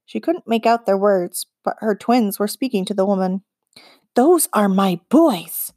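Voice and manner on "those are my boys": slow, breathed in disbelief. A narrator's reading. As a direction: let it out like a stunned breath. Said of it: "Annie breathed".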